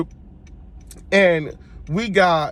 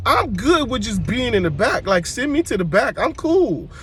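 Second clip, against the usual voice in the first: higher, light insistent voice; 6 semitones higher than usual. Real, not acted. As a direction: brush it off brightly. High excited insistence.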